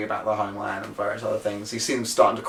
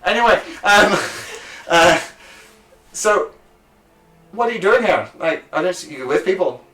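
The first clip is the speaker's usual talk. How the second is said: high chatty voice; 6 semitones higher than usual. Acted. GM voicing a chatty local.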